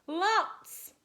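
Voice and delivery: high, loud single-word cry; eager answer. A narrator's reading. Mum answers the godmother, high loud cry. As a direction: call it out eagerly.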